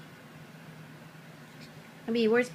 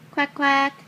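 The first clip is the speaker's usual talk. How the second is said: duck quack; 4 semitones higher, 5 dB louder than usual. Pretend. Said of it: "yellow duck".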